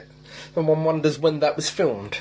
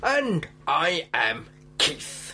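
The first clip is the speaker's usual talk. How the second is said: underbite; 2 semitones higher, much slower than usual. Pretend. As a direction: push the jaw forward and speak slowly. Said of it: "jutting his jaw out heroically".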